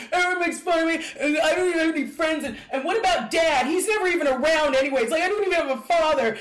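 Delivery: high, loud, rushed sobbing wail; retold tearful outburst. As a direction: pour it all out like a crying kid. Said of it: "throwing up everything".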